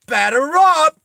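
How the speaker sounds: high, loud holler; yelled call. Acted. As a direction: yell it out like a ballpark call. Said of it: "he yells out".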